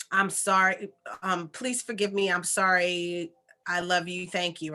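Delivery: earnest, heartfelt mantra recitation; sincere recitation. Shown as a demonstration. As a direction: say it gently, like a sincere apology. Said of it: "where you simply say".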